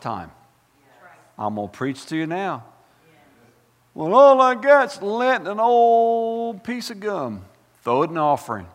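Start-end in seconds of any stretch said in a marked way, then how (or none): 3.9-7.4 mock excuse. Mock church member excusing not giving.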